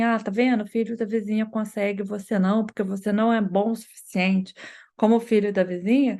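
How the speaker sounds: a light dismissive comparison; lightly mock the child by comparing; mildly belittling parent. Parent lightly belittling child with neighbor's kid. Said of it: "Tem uma outra entonação".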